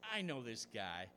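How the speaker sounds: fed-up stranded driver griping. Acted. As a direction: work yourself up, muttering mad. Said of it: "so he's already griping".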